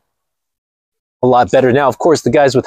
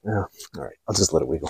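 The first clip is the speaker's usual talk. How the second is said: much softer resigned mumble; muttered aside; 9 semitones lower, 13 dB quieter, faster than usual. Real, not acted. Giving up on the mic, soft mumble. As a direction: mutter it to yourself.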